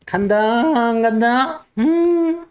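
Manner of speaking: lightly hammed-up fortune-teller; fan fortune-teller. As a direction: play a fan-waving seer divining the market. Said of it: "부채도사".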